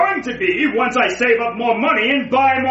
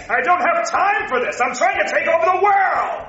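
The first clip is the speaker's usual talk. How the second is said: indignant rant; 6 semitones higher than usual. Acted. Villain ranting in bank line.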